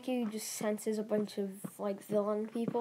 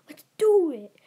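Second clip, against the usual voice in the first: loud high yell; battle cry; 7 semitones higher, 12 dB louder than usual. Retold or imitated. Kids charging at the arriving villains, yelling loudly. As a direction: shout it as a rallying cry.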